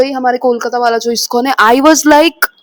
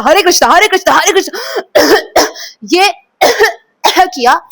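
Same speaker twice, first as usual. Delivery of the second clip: high strained chant breaking into coughs; chanting then coughing; 5 semitones higher than usual. Retold or imitated. Retelling the dream chant to viewers, choking into a cough. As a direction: chant until a cough cuts in. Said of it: "जैसे हमने हरे कृष्णा".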